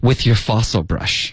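slow, acted punchline; drawn-out mocking tag line; Rachel's snide comeback. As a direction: deliver the put-down slowly and pointedly. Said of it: "然后她就解释".

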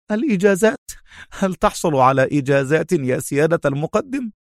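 high, incredulous questioning; amused Khaled. A narrator's reading. Khaled teases his superior officer, amused and high. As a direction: echo it in amused disbelief. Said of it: "ضحك خالد وهو يقول".

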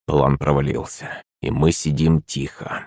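low, slow, soft and grim; muttered through teeth. A narrator's reading. Prince admitting the failed plan, muttered through teeth. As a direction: squeeze it out quietly through the teeth. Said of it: "процедил Шувалов".

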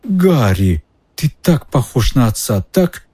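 timid wheedling. Acted. Pettigrew wheedles Harry for mercy.

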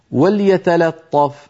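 وليتلطف said slowly, the first لام light and the طاء heavy; نطق وليتلطف بتأنٍّ مع ترقيق اللام وتفخيم الطاء; careful recitation. Shown as a demonstration. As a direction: read وليتلطف slowly, lām thin, ṭā' full. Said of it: "هذه أيضًا يكثر فيها الخطأ".

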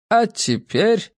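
a hint of a courteous old man, unhurried; proud old host. A narrator's reading. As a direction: slowly call the guests to attention.

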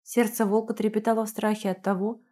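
plain reading voice

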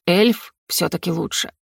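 ordinary delivery

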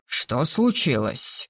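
usual speaking voice

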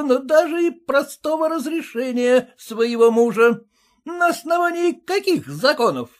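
high, stiff officious husband; voiced husband demanding by law; pompous husband. A narrator's reading. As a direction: lecture her like a petty clerk. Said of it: "спросил".

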